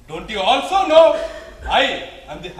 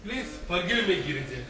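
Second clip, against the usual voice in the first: soft, contrite, falling apology; remorseful plea; 5 semitones lower, 8 dB quieter than usual. Acted. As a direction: confess it quietly, full of regret. Shiva repents before grieving Parvati.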